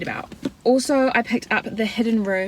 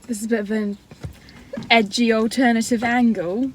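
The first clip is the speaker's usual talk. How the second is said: put-on British accent; playful British accent; fake British accent; 3 semitones higher than usual. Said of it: "my fake British accent".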